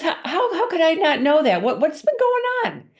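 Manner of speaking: husband reeling as his wife admits her drinking problem; stunned husband. Retold or imitated. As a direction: stumble over the words in shock.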